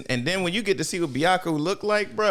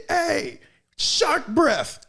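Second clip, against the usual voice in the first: high mock taunt; 12 semitones higher, much slower than usual. Hero taunting the villain, high squeaky taunt. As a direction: pitch up high for a cocky taunt. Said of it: "He said".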